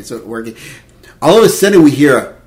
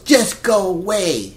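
drawn-out, higher-pitched brush-off; imitated irritated send-off; annoyed dismissal; 5 semitones higher, slower than usual. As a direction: drag it out, fed up. She dismisses her husband.

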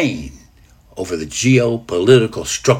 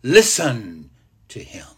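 voice of God; slower than usual. Acted. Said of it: "You hear the voice of God himself".

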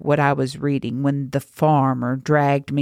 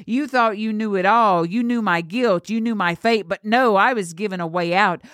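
raised-pitch, indignant condemnation; bitter tirade; 4 semitones higher than usual. Acted. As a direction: lay out each grievance with righteous anger. Girl's bitter tirade at the priest.

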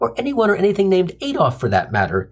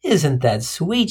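sweet vet; much slower than usual. Acted. Vet charmed by the tattoo.

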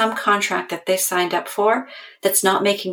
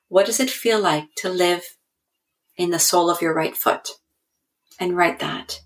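guided journaling prompt. Shown as a demonstration. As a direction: lead listeners gently through the body.

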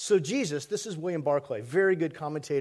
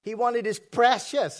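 Smeagol; 6 semitones higher, 5 dB louder, slower than usual. Retold or imitated. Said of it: "that Smeagol attitude".

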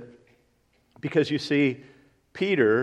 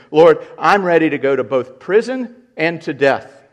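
bold vow; 3 semitones higher, 8 dB louder than usual. Acted.

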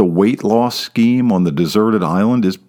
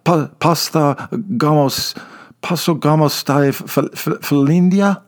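high, stumbling broken Greek; a tourist mangling Greek; halting bad Greek; 5 semitones higher than usual. A narrator's reading. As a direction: fumble for the Greek words. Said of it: "less than stellar Greek".

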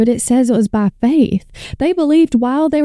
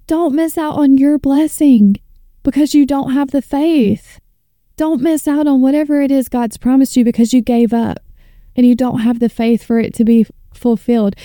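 fired-up preaching; 2 semitones higher than usual. Real, not acted. Believer urging viewers not to miss their blessing, fired-up preaching. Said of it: "sound like a pastor right now, but I get fired up".

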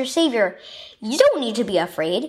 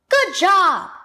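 exclaimed; 7 semitones higher, 4 dB louder than usual. A narrator's reading. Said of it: "exclaimed Grandpa".

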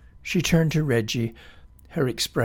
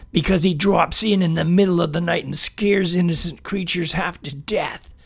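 fast indignant grumbling; annoyed complaint; 5 semitones higher, 4 dB louder than usual. Acted. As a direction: butt in, grumpy. Reggie butting in, complaining.

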